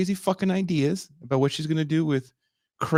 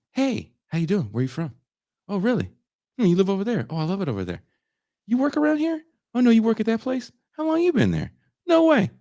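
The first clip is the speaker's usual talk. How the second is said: mock friendly small talk, rising higher; lightly voiced eager salesman chatter; a hint of a salesman working a customer; chatty salesman demo; 6 semitones higher, faster than usual. Shown as a demonstration. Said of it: "Like this".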